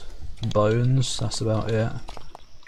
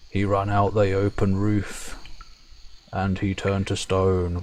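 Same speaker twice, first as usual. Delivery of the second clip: broken-english Fomor; 2 semitones lower than usual. Acted. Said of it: "They talk funny".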